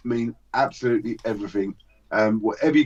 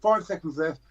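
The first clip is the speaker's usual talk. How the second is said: lively auction calling, bids rattled off; auctioneer play-by-play; 4 semitones higher than usual. Acted. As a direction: call the bids like a hyped auctioneer. Runs mock auction play-by-play.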